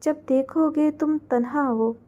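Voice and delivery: slow, soft, lingering verse; poem recital. A narrator's reading. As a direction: let each line of the poem sink in slowly.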